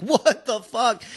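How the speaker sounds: high, slow, stunned disbelief; shocked what the fuck. Retold or imitated. Friends spooked by chasing lights, high stretched disbelief. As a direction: drag it out in retold shock. Retold panic at car chasing them.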